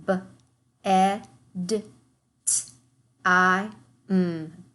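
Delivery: N, I, N, T, E, N said as separate sounds; segmenting sounds. Shown as a demonstration. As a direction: sound out nineteen piece by piece. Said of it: "segment the rest of our words".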